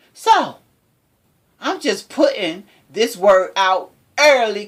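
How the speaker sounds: lightly dramatized tough-guy challenge; best acting voice. Quoting the man putting word out early to Harvey, best acting voice. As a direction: act out a defiant statement, measured and emphatic. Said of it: "say this in my best acting voice".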